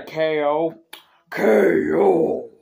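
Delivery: loud happy shout; excited yell. Real, not acted. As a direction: cheer it out. Cheering a knockout.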